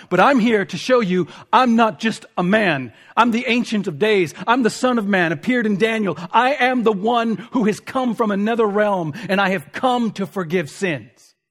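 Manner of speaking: a touch of Jesus proclaiming. Acted. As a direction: declare who he is with force. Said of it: "The point of the passage is".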